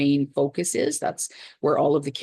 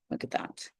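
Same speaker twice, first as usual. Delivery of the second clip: whispered admiration; 12 dB quieter than usual. Real, not acted. Admiring the result quietly.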